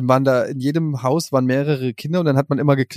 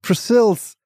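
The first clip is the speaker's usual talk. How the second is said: put-on drunk slurring; 7 semitones higher than usual. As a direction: slur the name like a drunk. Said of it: "bist du besoffen".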